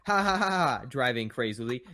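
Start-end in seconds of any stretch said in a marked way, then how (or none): 0.1-0.8 snickering. Acted. Eddie cackling while driving.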